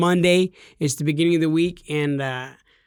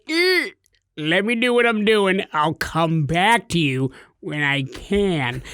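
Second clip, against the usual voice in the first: mock brush-off; slower than usual. Brushing off a customer's spider report in a mock dismissive voice. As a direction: wave off the customer while busy. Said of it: "and I'm like".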